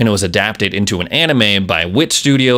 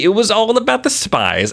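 excited; 11 semitones higher than usual. Real, not acted. Repeats with big pitch jump.

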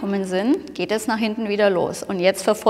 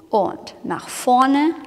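slow, rising count-in; slow instructor cue on vorne; stretched movement cue; 3 semitones higher, much slower than usual. Shown as a demonstration. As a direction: draw out each word like a dance cue. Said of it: "Du nimmst das Becken".

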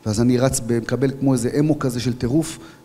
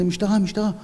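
urgent call; 8 semitones higher than usual. Retold or imitated. Identifying himself under guns.

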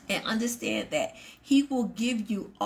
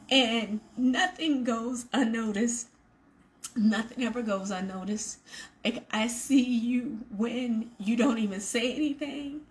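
getting emotional. Real, not acted. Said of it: "like, emotional right now".

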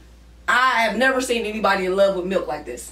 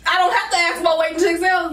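raised voice; 6 semitones higher than usual. Real, not acted. Heated argument about the movie.

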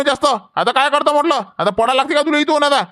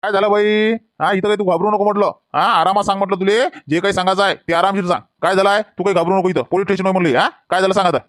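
a calm officer setting a scared woman at ease, lower; police inspector; 4 semitones lower than usual. Acted. Inspector calming the widow at the station, lower and soothing.

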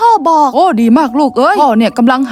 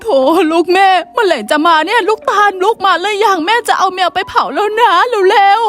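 impatient mother; 4 semitones higher than usual. Acted. Mother on the phone urging her daughter to hurry, impatient.

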